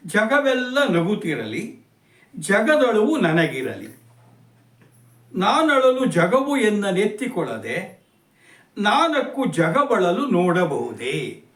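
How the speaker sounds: slow, measured reading of a poem; poem recitation. Acted. Teacher recites the whole poem to students, slow and measured. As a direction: let each line of verse ring out slowly. Recites first stanza again.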